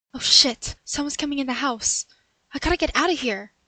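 sudden loud alarm, then a fast rush; panicked burglar hearing the owner come in; startled panic. Acted. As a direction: caught red-handed and scrambling to flee. Burglar hears someone coming home.

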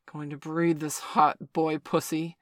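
loud, slow dominant grunting. A narrator's reading. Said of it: "Victor grunted".

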